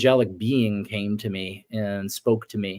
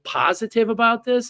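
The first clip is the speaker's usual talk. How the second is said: higher pitched, exasperated complaint; indignant rant; 4 semitones higher than usual. Retold or imitated. Dying man ranting at the angel, higher and exasperated. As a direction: protest like a man at the end of his rope. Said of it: "then I got really pissed".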